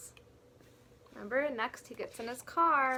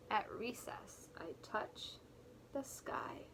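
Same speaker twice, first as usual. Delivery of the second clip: whisper; 2 semitones lower, 10 dB quieter than usual. Acted.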